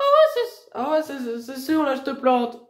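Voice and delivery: high-pitched furious threat; angry threat. Real, not acted. Young woman threatening the educator with a knife, angry.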